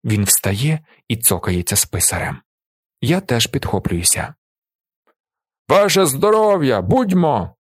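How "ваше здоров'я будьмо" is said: loud, high roared toast; roaring toast. A narrator's reading. Narrator and Willi roaring at peasants, loud. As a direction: roar the toast at stunned villagers. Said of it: "ревемо ми приголомшеним селянам".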